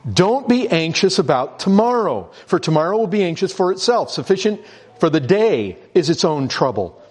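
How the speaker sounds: pulpit reading of the verse; emphasis on reading. Shown as a demonstration. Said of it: "Put the emphasis there on daily".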